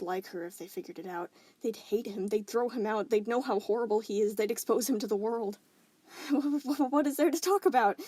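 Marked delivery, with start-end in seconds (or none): 6.1-8.0 wheezy chuckle. Acted. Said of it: "he chuckled wheezily".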